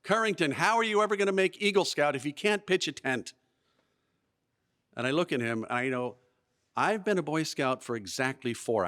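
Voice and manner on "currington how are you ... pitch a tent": high-pitched mock yell, little added volume; imitated screaming. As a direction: imitate an exasperated boy scolding his tentmate. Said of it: "he's screaming at me".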